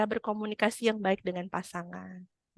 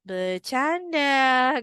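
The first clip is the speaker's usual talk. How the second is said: youngsters' joking; 4 semitones higher, much slower than usual. Acted. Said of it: "anak sekarang".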